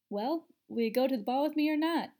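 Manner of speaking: loud, high call over the shoulder. A narrator's reading. Eddie walking off, calling back to Daphne. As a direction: call back to her as you walk away. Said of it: "Eddie called over his shoulder".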